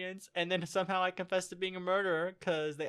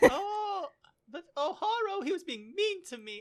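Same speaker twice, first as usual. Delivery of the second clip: very high-pitched anime rabbit character voice; 11 semitones higher than usual. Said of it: "my character's voice sounds a lot like that one dude from Fruit Baskets, the rabbit".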